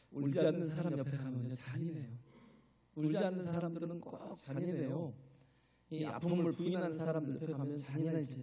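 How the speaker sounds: usual speaking voice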